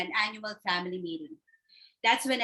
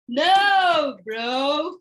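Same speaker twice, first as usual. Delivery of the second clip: loud, higher snap; loud brush-off to a sibling; loud retort; 4 semitones higher, 7 dB louder than usual. Acted. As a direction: bark it back at him. September retorts loudly.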